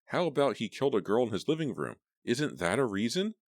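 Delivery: high, loud outrage; outraged shout. A narrator's reading. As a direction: hurl the question at them. Roxy shrieking on.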